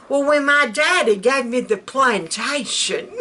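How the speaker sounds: a hint of an old plantation lady putting on airs; old Southern lady voice. Vlogger mimicking old Southern women, a light genteel lilt. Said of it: "the kind that talk like this".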